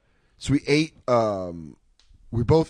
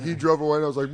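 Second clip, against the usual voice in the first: ordinary delivery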